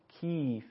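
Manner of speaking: کیف with the Persian long vowel; Persian vowel demo. Shown as a demonstration. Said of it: "شکل باز شدن دهان و تلفظ".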